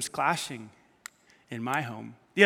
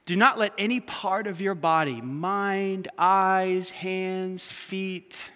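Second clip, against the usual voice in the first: scripture reading. Real, not acted. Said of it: "Listen to this fantastic passage".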